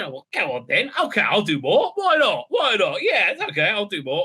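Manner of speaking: lightly put-on London accent, up-and-down lilt. Actor agreeing to return, in a London accent. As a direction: play a breezy Londoner agreeing. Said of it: "we didn't say it in the London accent".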